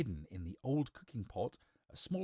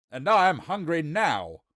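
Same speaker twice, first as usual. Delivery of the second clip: loud, raised angry roar; 5 semitones higher, 11 dB louder than usual. Acted. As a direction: roar it to drive the old man off. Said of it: "roared the wizard".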